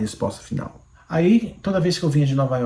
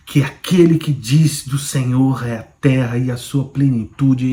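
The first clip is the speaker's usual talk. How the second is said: voice of God; slower than usual. Retold or imitated. The Lord revealing himself to Márcio, slow and solemn. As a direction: proclaim each "eu sou o Deus" slowly, with gravity. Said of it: "o Senhor começou".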